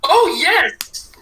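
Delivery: high, eager exclamation; excited. Real, not acted. Friend hearing their origin story is coming, excited. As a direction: pounce on the idea with glee.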